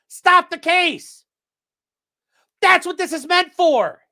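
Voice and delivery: slow, loud and high; slow furious demand; angry. Real, not acted. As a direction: spell it out furiously. Ranting at judge.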